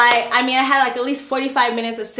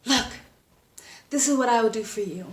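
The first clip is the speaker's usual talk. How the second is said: telenovela drama. Retold or imitated. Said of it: "most telenovela dramatic performance".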